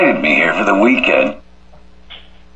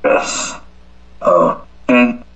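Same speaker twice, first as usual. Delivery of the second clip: spelling it out; 3 semitones higher, slower than usual. Real, not acted. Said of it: "Can you spell it for me?".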